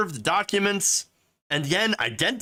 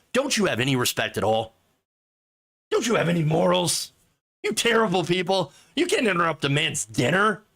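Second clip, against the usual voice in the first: mock aghast outrage; 3 semitones higher than usual. Mocking aghast media.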